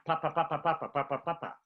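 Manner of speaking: crisp, popped "pa" syllables in a row; P sound drill. Shown as a demonstration. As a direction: pop each "pa" with a clear P. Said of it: "The last one is the P sound".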